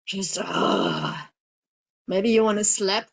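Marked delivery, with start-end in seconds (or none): 0.1-1.3 low angry grunt. Shown as a demonstration. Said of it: "need to beat up your pillow? Go for it".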